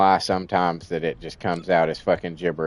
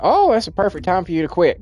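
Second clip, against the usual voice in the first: mocking smug advice; 9 semitones higher than usual. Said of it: "people are like".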